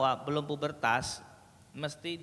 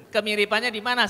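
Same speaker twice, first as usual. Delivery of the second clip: retold loud question; 7 semitones higher, 10 dB louder, faster than usual. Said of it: "saya bilang".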